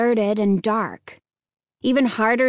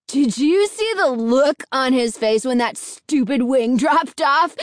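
put-on excited, raised boyish cry; 3 semitones higher than usual. A narrator's reading. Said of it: "Fred cried".

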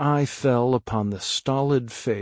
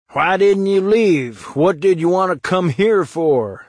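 angry demand; 7 semitones higher, 6 dB louder than usual. Acted. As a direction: berate him for coming back. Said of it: "somebody said".

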